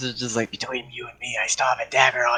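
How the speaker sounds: hushed, secretive, conspiratorial half-whisper. A player's character confides a secret to another at the table, half-whispering. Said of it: "So I'm just gonna whisper this".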